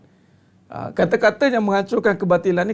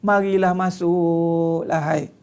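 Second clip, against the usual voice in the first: mock pleading invitation; 2 semitones lower, slower than usual. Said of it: "Dia tak ada".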